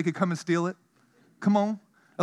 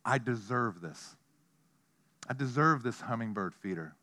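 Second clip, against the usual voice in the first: entitled attitude; 4 semitones lower, 3 dB quieter than usual. Retold or imitated. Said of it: "attitude of".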